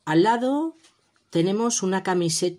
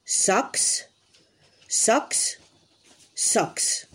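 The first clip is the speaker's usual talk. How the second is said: socks whispered crisply for copying; whispered model word; 3 semitones higher, much slower than usual. Shown as a demonstration. Teacher whispers socks to children as a model. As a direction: whisper socks for the kids to repeat. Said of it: "Repite conmigo".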